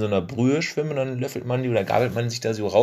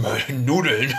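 laughing; 5 semitones higher than usual. Real, not acted. Laughs at own joke.

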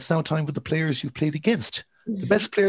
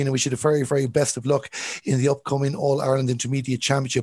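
Galway accent. Real, not acted. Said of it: "I'm from Galway".

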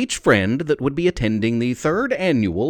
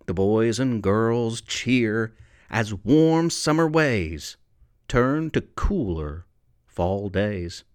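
poem recitation. Acted. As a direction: read the verse aloud warmly. Reads his poem aloud.

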